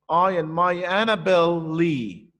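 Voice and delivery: slow beat through "Annabel Lee"; rhythmic last line. Shown as a demonstration. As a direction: stress "Annabel" and stretch "Lee". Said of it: "It gives you the same rhythm".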